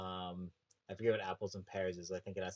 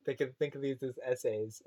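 British accent attempt; 5 semitones higher, 6 dB louder than usual. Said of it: "lost the ability to do a British accent".

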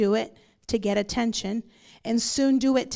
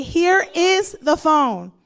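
loud, slow, raised-pitch mother impersonation; mom's challenge; 6 semitones higher, 7 dB louder, slower than usual. Retold or imitated. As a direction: declare it loudly, word by word, as Mom. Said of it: "She would say".

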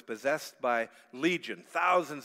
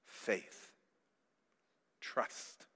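whispered; 4 semitones lower, 8 dB quieter than usual. Real, not acted. Naming the deeper need.

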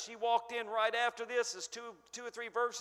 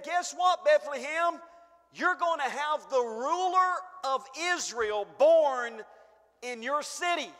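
proclaiming prophet; 3 semitones higher, 6 dB louder than usual. Acted. Micah announces to Bethlehem.

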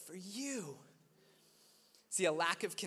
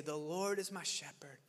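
quiet prayerful; 3 semitones lower, 3 dB quieter than usual. Pretend. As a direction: pray it gently under your breath. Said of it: "would you say".

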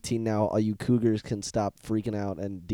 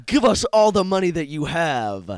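gritted-teeth thug demand, higher; through gritted teeth; 7 semitones higher, 6 dB louder than usual. Retold or imitated. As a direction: hiss it through clenched teeth. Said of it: "they all sound like they're talking through their teeth".

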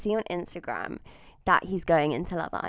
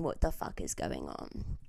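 whispered thought; 5 dB quieter than usual. Retold or imitated.

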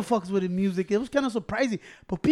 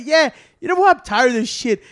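mock defiance; 4 semitones higher, 5 dB louder than usual. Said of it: "And I said".

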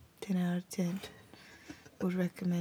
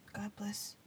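whispered blessing; 14 dB quieter than usual. Real, not acted. Sign-off blessing.

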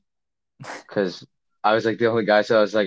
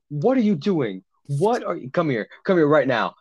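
higher-pitched mock scolding; imitated angry counselor; 5 semitones higher than usual. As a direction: tell off a kid like an exasperated counselor, not shouting. Retold counselor scolding the kid outside.

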